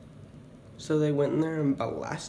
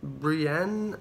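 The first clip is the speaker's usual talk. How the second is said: mock confused reading; 3 semitones higher, much slower than usual. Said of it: "and they're like".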